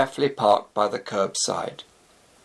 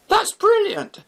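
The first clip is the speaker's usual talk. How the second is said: high, biting sarcasm; mock praise dripping with scorn; sarcastic; 4 dB louder than usual. Gemma mocking Shafi after the car is stolen, sarcastic.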